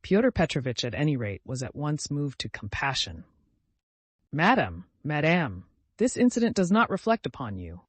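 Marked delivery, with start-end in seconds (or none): 4.3-7.8 loud, pompous address; a touch of grand pomp; impressive. Acted. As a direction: play the gracious gentleman. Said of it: "he cried impressively".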